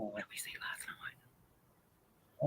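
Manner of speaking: slow, very soft whisper; hushed, drawn-out pondering; whispered musing. Real, not acted. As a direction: whisper the question to yourself. Echoing the question, thinking.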